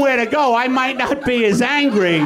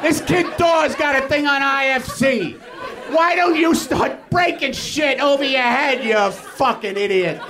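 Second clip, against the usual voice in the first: mock manager. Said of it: "my manager should be saying".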